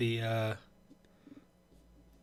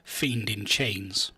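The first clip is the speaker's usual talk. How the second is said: flustered grovelling servant; 5 dB louder, faster than usual. Acted. Player bluffs in character to Strahd.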